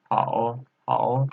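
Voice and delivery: "hao" with a dipping third tone. Shown as a demonstration. Teacher reading out tones for learners, "hao" in third tone. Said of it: "third tone".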